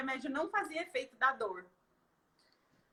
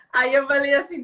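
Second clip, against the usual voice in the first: crying; 11 dB louder than usual. Real, not acted. Recalling relief, crying heard.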